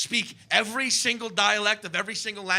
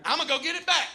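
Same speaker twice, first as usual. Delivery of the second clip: defiant redneck voice; 4 semitones higher than usual. Retold or imitated. Voicing angry American refusing cure.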